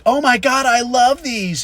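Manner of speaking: high, loud gushing squeal; thrilled waitress. Retold or imitated. Waitress loving the paper fortune teller, high excited gush. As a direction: gush like she's delighted. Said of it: "she lost her fucking mind".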